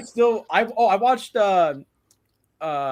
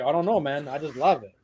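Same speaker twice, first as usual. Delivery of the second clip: imitated Mexican accent, lower at the end; thick Mexican accent; 3 semitones lower than usual. Friend defends the movie he loves, imitated Mexican accent. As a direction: play the friend's helpless shrug in a Mexican accent. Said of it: "very thick accent".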